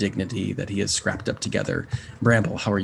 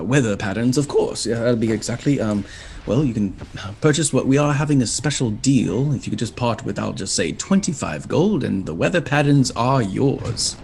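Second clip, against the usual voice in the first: flustered imp professor; 2 semitones higher than usual. Acted. Imp professor introducing himself to travellers, flustered and fussy. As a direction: trip over the words like a nervous bureaucrat. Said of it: "devilish imp".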